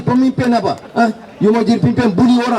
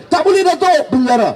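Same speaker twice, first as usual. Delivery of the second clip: mock yell, pitched higher; a raised, half-shouted heckle from the crowd; retold crowd shout; 4 semitones higher than usual. Crowd member heckling the speaker, a mild mock yell. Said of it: "dia jerit".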